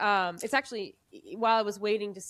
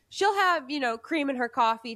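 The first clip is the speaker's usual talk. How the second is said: insistent father; 4 semitones higher, 4 dB louder than usual. Retold or imitated.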